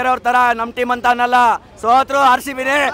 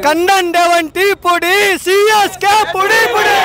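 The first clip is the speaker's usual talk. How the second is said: taunting dialogue; 4 semitones higher than usual. Real, not acted. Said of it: "ಚೆನ್ನೈಗೋಸ್ಕರ dialogue ಹೇಳಿ".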